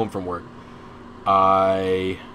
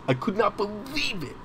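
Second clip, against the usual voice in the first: much higher, softer, incredulous; disbelief; 10 semitones higher, 8 dB quieter than usual. Real, not acted. Recalling the boss who yelled, pitched high in real disbelief. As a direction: let the disbelief lift your voice high. Repeats disbelief after angry story.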